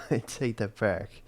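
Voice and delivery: slowly spelled out "I take that back"; drawn-out, deliberate retraction. Real, not acted. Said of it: "repeated slowly".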